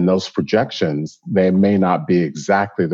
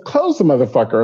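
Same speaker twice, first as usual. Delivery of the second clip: Texan drawl order; 6 semitones higher than usual. Retold or imitated. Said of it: "She's from Texas. She says".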